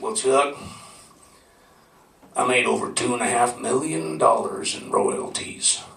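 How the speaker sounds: put-on easygoing Southern accent, slowing on the end; relaxed Southern accent. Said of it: "he was talking in a southern accent".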